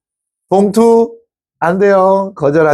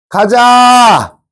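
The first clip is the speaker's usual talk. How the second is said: loud, long drawn-out rallying cry; high-pitched "let's go" holler; rallying call; 5 semitones higher, 4 dB louder, much slower than usual. Pretend. Calls the class to go.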